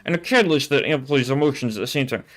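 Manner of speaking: slurred S's through closed teeth; nerd voice. Acted. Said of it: "talk with your teeth ... keeping them closed".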